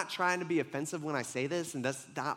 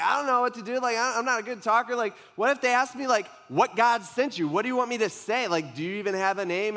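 higher, anxious pleading as a nervous Moses; panicky Moses; 5 semitones higher, 4 dB louder than usual. Retold or imitated. Moses begging God for a name, flustered and higher. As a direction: fret that you can't speak well.

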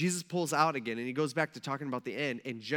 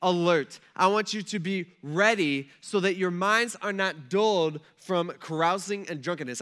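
slow, louder, higher insistent warning; urgent warning; 4 semitones higher, 5 dB louder than usual. Retold or imitated. Preacher voicing Jesus warning his disciples, slow and louder. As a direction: press each "I want you" home with urgency.

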